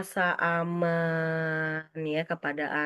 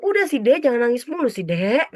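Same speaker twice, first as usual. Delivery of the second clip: dismissive; 6 semitones higher, 6 dB louder than usual. Acted. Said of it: "Jangan langsung".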